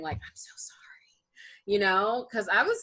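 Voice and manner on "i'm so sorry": hushed, voiceless whisper; very soft whispered aside; imitated whisper. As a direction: whisper it like a classmate behind someone's back. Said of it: "like, whispering".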